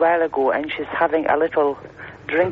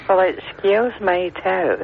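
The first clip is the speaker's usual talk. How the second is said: slow, teasing echo of the affront; playful drawn-out retort; mock indignation; slower than usual. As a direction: throw the huffy phrase back, drawn out. Echoes host's mock offence.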